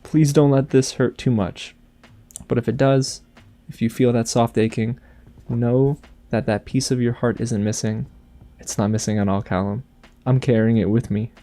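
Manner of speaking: tender reading of a farewell letter, lightly voiced. Reading Rayla's letter to Callum aloud, gentle and tender.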